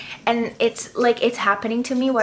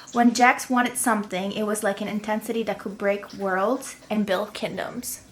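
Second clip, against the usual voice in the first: reverent read-aloud of a favourite line; lightly dramatic book reading; reading a quote aloud. Shown as a demonstration. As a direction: savour the sentence as you read it. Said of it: "let me read you this one sentence".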